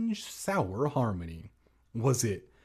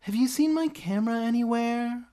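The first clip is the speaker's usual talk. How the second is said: high, loud anxious question; crying out; 10 semitones higher, 3 dB louder, faster than usual. Acted. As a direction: cry it out in alarm. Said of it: "I cried".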